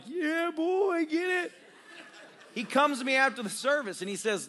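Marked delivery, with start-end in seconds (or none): 0.1-1.5 much higher cheering encouragement; preacher egging on the laughing man, excited; hype cheer. Retold or imitated. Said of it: "And I'm like".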